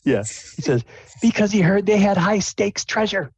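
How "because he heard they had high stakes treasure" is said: higher, louder, triumphant punchline; punchline delivery. Acted. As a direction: land the pun proudly. Jester punchline.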